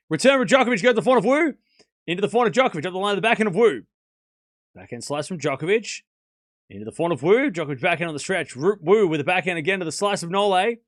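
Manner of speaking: brisk, lifted commentator delivery; live tennis play-by-play. Real, not acted. Streamer calls a Djokovic rally for chat, live play-by-play. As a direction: call the rally shot by shot.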